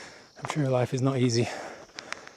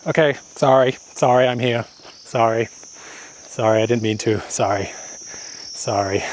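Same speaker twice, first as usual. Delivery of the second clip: sheepish apology; 4 dB louder than usual. Retold or imitated. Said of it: "my face will drop".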